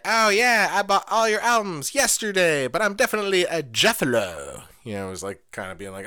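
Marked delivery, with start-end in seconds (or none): 0.0-4.6 high, loud sneering fan voice; mock a fake fan, pitched up; high mocking poser voice. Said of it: "somebody was being like".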